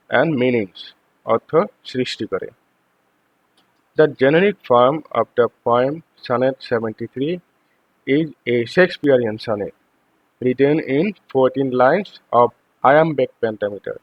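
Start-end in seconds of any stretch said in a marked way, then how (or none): 4.0-14.0 slow, deliberate reading of the English text; slow textbook reading. Acted. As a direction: read each word out carefully for the class. Reads English text for students. (ধীরে ধীরে পাঠ্য পড়া)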